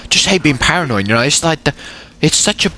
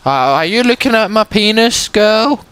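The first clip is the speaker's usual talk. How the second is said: mock cocky; 8 semitones higher than usual. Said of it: "and you're just like".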